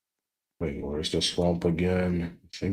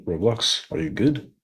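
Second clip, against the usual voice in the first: pitched way up, pleading; high worried call; 7 semitones higher, 4 dB louder than usual. Real, not acted. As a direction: call out to the game, high and fretful. Game lagging, calling out.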